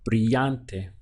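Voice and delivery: brillante with the ll said as a Y; double L as Y. Shown as a demonstration. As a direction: say brillante as bree-YAHN-teh. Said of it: "treat that as though it were a Y".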